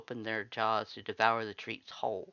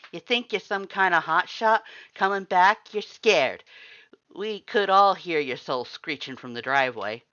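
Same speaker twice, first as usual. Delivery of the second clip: much louder, higher mocking shout; furious taunt; 7 semitones higher, 11 dB louder than usual. Red taunts the scared visitor, finger in her face, shouting. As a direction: jab every word at her.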